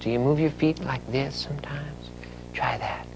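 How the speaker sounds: unvoiced, hushed question; whisper. Real, not acted. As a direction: whisper it to draw her in. Asks child quietly about dancing.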